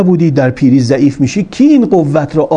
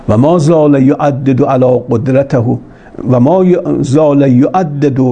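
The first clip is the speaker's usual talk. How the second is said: slow, measured reading of Arabic; deliberate Arabic quotation; Arabic scripture recitation; slower than usual. Acted. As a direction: recite the sacred text slowly, word by word. Reads out the Arabic text.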